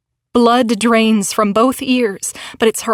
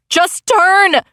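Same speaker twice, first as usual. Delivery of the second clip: higher urgent shout; yelled; 7 semitones higher than usual. A narrator's reading. Crystal yells at driver to turn, urgent shout. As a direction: bark the command. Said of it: "Crystal yells".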